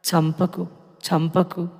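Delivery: a soft, hushed plea to be spared; begging. Retold or imitated. The daughter retells pleading with her killer, hushed and desperate. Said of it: "చాలా బ్రతిమిలాడిన".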